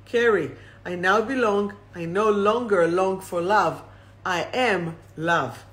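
slow, deliberate reading of the affirmation; the affirmation again, said slowly. Shown as a demonstration. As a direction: let each word land, unhurried. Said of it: "I'll read it again slowly".

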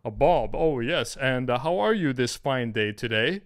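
mock the overly formal suitor; stiff Bob. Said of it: "Or James".

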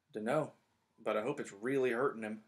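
a resentful jab at Snape; bitter Ron. Acted. Ron hoping Snape's leg hurts, bitter. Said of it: "said Ron bitterly".

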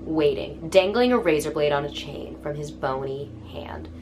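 measured, ominous storytelling read; book blurb narration. Acted. Reading a horror book's back cover to viewers, measured narration.

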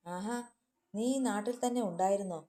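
husband sneering at his returned wife; sneering question. Acted. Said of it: "Sudhi പുച്ഛത്തോടെ ചോദിച്ചു". (പുച്ഛത്തോടെ, ചെറിയ പരിഹാസം)

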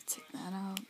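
soft unvoiced whisper. Shown as a demonstration. Vlogger whispering to viewers as he takes out the disc. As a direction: breathe the words out with no voice. Repeats line while pulling disc.

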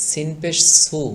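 সিন and সু with a light, sharp s; thin, natural সিন. Shown as a demonstration. Teacher contrasts with the heavy letter, সু thin. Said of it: "স্বাভাবিক চিকন হবে".

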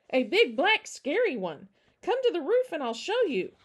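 put-on high, loud, breathless-with-news child; eager small girl voice; excited little girl. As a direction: urge the grown-ups to come and see.

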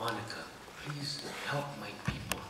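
put-on thick Mexican-accented soap dialogue. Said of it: "a Mexican accent".

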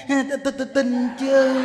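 mock-frightened, stuttering on the first word; nervous agreement. Cowed old woman answers the monk's threat, nervous stammer.

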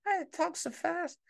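put-on high, puzzled old-timer voice asking Martha; mock bewildered listener; confused listener. Viewer turning to Martha, baffled by fast talk.

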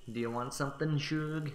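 lightly voiced Southern waitress drawl; a hint of a diner waitress drawl. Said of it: "a Southern American drawl".

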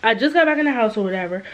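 breathless after carrying stuff in; winded, talking fast between breaths. Real, not acted. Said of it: "I'm out of breath".

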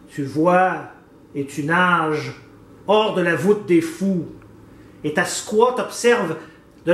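declaimed verse, measured lines with pauses; deliberate, theatrical poetry reading; poem recitation. Acted. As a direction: recite it like a poem, letting each line land.

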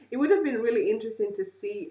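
quick, chatty rush of words; speaking fast. Real, not acted. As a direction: rattle it off briskly. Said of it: "am I speaking too fast".

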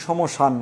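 সমসান slowly, m sounded out; m pronounced. Shown as a demonstration. Teacher showing the unused reading, সমসান with a slow clear m. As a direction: draw out সমসান as sho-mo-shan. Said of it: "ময়ের উচ্চারণ করি না".

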